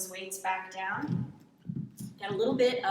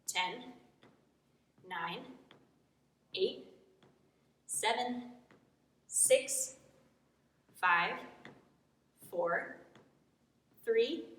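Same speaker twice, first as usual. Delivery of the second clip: counting while holding a squat; talking from a held low squat; in a deep squat. Real, not acted. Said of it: "Down for twelve".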